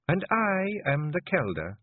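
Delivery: high, slow, icy Scots authority; hard, cold, sharp. A narrator's reading. Clan leader silencing the men, cold and sharp. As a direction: cut across him like a dagger of ice. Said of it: "use your voice like that".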